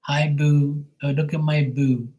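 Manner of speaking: lightly voiced Bermudan sweethearts; mock sweet boo calls. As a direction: coo it like sweethearts. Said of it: "they like to call each other boo".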